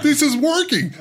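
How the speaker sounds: high, thrilled whisper of delight; mock giddy excitement; excited inner voice. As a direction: sound giddy it's working. Retelling own excited thought.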